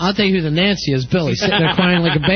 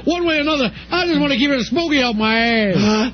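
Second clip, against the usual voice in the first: hammed-up movie outlaw, pitched up; the bandit; 4 semitones higher than usual. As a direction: play a cocky film character, voice lifted. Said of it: "I came back as the bandit myself".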